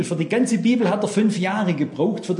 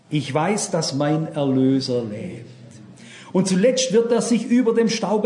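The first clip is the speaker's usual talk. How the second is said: solemn recitation. Acted. Reciting Job's verse.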